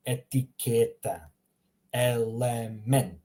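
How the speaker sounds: slow, drawn-out syllables of Etiqueta and element; teacher modelling "Etiqueta, element." with stretched, deliberate syllables; careful pronunciation demo. Shown as a demonstration. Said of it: "Notice how I'm pronouncing".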